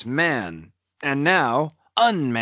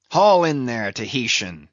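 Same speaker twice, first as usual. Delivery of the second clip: command; 3 dB louder than usual. Acted. Ahab ordering the crew.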